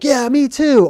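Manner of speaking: squeaky cheerful agreement; Gandalf voiced. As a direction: Gandalf cheering as he joins the charge. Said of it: "Gandalf's like".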